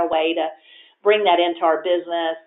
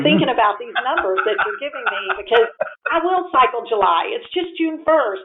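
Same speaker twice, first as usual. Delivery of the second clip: mock protest; 4 semitones higher than usual. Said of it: "the next day I'm telling him".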